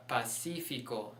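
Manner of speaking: Pacífico stressed on the second syllable, pa-SI-fi-co; stress as written. Shown as a demonstration. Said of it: "Put the stress mark where it's written".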